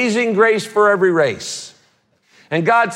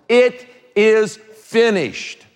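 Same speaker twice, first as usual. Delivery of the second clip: solemn dying words; 4 semitones higher, much slower than usual. Acted. Jesus's last words from cross.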